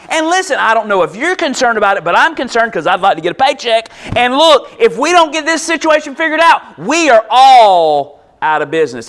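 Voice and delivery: worked-up, emphatic complaint; agitated yelling. Acted. Disciple fears losing his paycheck, agitated and loud. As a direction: rush the worry, then hit the warning loud. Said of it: "like, yelling and screaming and being like".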